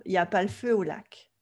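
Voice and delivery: falling line with the weight on "lac"; French rhythm ending on "lac"; French final stress. Shown as a demonstration. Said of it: "c'est la proéminence sur la dernière syllabe".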